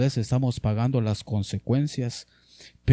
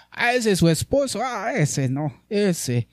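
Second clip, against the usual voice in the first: mock gossip; 3 semitones higher than usual. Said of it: "le dice".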